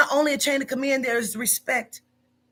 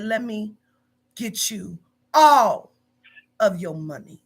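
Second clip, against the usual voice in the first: nasty; 3 semitones lower, slower than usual. Retold or imitated.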